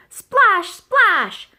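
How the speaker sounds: high, loud exclaimed splash; splash effect. A narrator's reading. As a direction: make the word burst like water. Splashes in the math game.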